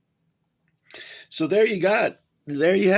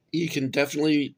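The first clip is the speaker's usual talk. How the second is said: words jolted by a hiccup; 4 semitones higher, much faster than usual. Real, not acted. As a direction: talk through a sudden hiccup. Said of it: "I'm hiccuping".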